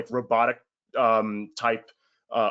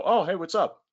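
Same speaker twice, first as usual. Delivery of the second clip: higher, casual oh, hey, what's up; surprised acquaintance; 7 semitones higher than usual. Pretend. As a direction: answer like a caught-off-guard acquaintance. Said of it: "They go".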